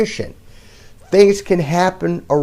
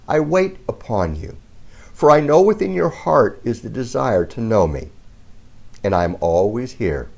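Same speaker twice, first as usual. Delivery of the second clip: solemn reading; 3 semitones lower than usual. Acted. Second message read as God.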